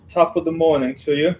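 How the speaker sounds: put-on a poor stab at an English accent; bad English accent. Streamer greeting Phil, terrible English accent. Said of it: "Gotta work on my English accent".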